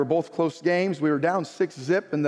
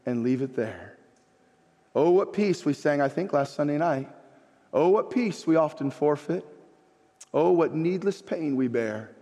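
measured phrases with long pauses; reflective hymn recitation; 2 semitones lower than usual. Real, not acted. Pastor quoting hymn lines to congregation, reflective recitation.

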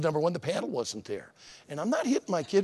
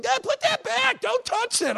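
mock parent yell. Preacher imitating a parent yelling at a kid in Walmart, high mock yell. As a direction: bark it like a fed-up parent in Walmart. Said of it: "a parent is screaming at their kid".

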